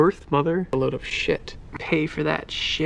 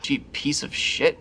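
swearing tirade. Acted. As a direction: build to a furious rant. Rapid-fire swearing montage.

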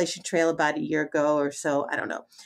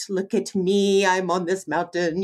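mock profound; 2 semitones lower than usual. Hiker mocking a woman posing on an overlook, mock profound. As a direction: imitate someone posing for a grand moment. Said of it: "supposed to be this profound moment".

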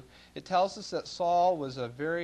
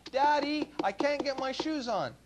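put-on high, louder child's plea; whiny child; 9 semitones higher, 5 dB louder than usual. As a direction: call out like a helpless little boy. Son calling father for help.

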